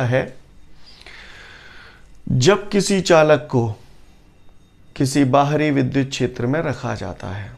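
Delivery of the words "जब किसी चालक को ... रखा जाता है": slow, deliberate dictation of a definition; teacher dictating a definition, slow and measured. Shown as a demonstration. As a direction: spell out the definition slowly so students can write it down. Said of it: "अब मैं परिभाषा बोल रहा हूं, लपक लो".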